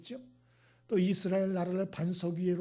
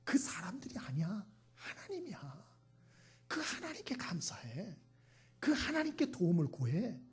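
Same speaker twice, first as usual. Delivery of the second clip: lightly whispered, soft admonition; gently correct, mostly under the breath; acted quiet urging; hushed voice of God; 4 dB quieter than usual. Still acting God's hushed correction.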